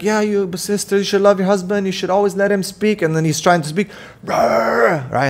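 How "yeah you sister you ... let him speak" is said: higher mock sister voice; lightly mocking online sister; mimicking the sister. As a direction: imitate a preachy wife, higher and lighter. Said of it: "so the sister's like".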